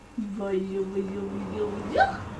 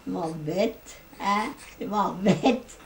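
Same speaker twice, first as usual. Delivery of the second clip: voicing the baby; 8 semitones lower, 5 dB quieter, slower than usual. Grandmother voicing the baby's complaint, lower grumble. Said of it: "elle dit".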